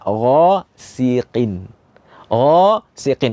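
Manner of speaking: ghasiqin said slowly, gha thick, qi still thick from the back; correct ghasiqin. Shown as a demonstration. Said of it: "tapi bacanya".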